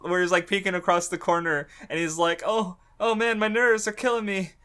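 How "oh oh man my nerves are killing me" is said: fanboy nerd. Retold or imitated. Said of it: "he's such a fucking fanboy nerd".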